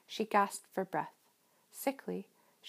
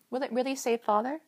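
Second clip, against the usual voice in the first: louder, anguished question; in agony; 5 semitones higher, 4 dB louder than usual. A narrator's reading. Meg begging Calvin for reassurance in anguish. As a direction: ask it in torment. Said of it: "Meg asked in agony".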